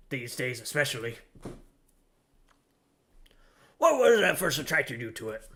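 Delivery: a lightly voiced gruff old deckhand, chatty; grizzled sailor voice. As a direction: read it as a weathered old seaman, barely shifted. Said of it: "Stay with the grizzled voice".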